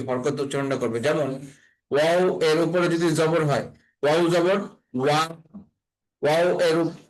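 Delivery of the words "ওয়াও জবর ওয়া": ওয়া starting from rounded lips. Shown as a demonstration. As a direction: round the lips first, then open into ওয়া. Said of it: "ঠোঁটটা গোল হয়ে তারপরে ওই উচ্চারণটা". (ঠোঁট গোল করে তারপর ওয়া)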